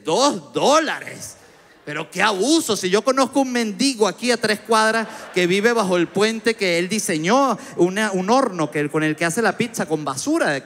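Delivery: mock outrage at the price; scoffing cheapskate.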